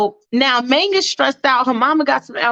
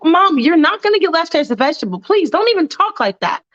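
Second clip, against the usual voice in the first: upset daughter; 5 semitones higher than usual. Acted. Daughter pleading with mom.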